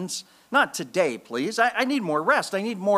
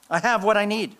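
higher, more assured; lifted repeat; 4 semitones higher than usual. Shown as a demonstration. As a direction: say it with conviction. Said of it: "Five words".

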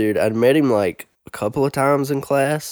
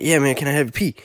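lightly put-on street accent, higher pitch; imitation of classmate's accent; 4 semitones higher, faster than usual. Classmate repeating his request in the hallway, imitated accent. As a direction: ask in an imitation of his accent, words run together. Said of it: "doing my best imitation of his accent".

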